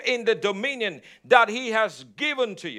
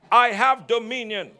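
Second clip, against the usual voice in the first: "I have dominion" with firm conviction, from the heart; a touch more conviction in the declaration; said like you mean it; 2 semitones lower than usual. Shown as a demonstration. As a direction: declare it as if you truly believe it. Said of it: "say it like you mean it".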